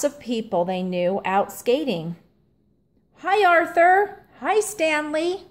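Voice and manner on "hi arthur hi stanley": friendly call. A narrator's reading. Martin calls hello to his friends, higher and bright. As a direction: call out hi across the pond. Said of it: "called their friend Martin Tibbs".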